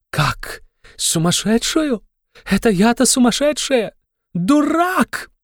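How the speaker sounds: an outraged woman shrieking, far up in pitch. A narrator's reading. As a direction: screech the insult back at him. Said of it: "взвизгнула Катерина Ивановна".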